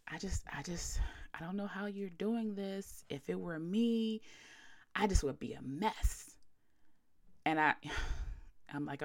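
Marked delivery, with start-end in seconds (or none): 0.1-6.4 whispered pitying mourner, lightly done; mock hushed condolence. Imitating a pitying mourner at the funeral, hushed. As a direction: imitate a pitying guest, breathy hush. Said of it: "someone would say".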